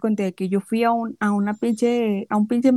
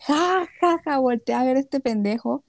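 mocking laugh; 2 semitones higher, slower than usual. Telling Fati to look at the guy, retold mockingly. Mocking the man to her friend.

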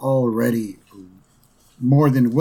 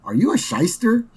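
put-on much higher little-girl voice, politely pointed; Lisa voice; 10 semitones higher than usual. Smart daughter questioning the lawyer, high girlish voice. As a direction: pitch way up like a clever little girl. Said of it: "Lisa goes".

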